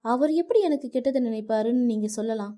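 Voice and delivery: wife shouting at her husband over her father; angry shouting. Acted. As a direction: yell at him for insulting her father. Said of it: "Nithya வருணிடம் கத்தினாள்".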